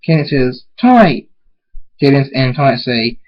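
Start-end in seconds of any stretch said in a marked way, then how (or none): 0.8-1.3 high, loud greeting; happy exclamation; joyful call. Acted. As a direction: answer a friend's call with delight. Friends reunited.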